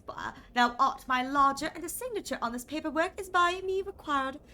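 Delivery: lightly voiced stiff old-fashioned gentleman; a hint of a pompous Shakespearean host; archaic landlord. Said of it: "When did you start talking like this?".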